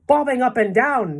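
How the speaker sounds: high, loud incredulous exclamation; astonished cry. A narrator's reading. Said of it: "they cried".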